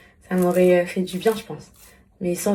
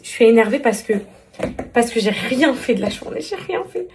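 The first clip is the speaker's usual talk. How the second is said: annoyed; 2 semitones higher, 3 dB louder than usual. Real, not acted.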